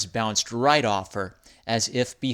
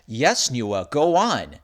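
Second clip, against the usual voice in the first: bright. Acted. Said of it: "said Mister M brightly".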